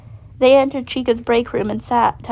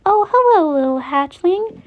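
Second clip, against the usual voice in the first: sweet chirpy greeting; 7 semitones higher, 4 dB louder than usual. A narrator's reading. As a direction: coo it to a little one. Chica greets warmly.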